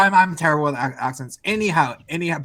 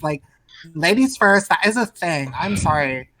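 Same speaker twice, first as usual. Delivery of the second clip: lightly raised feminine voice; a hint of a sassy trans YouTuber; Blair White impression; 3 semitones higher than usual. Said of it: "I can sound like Blair White".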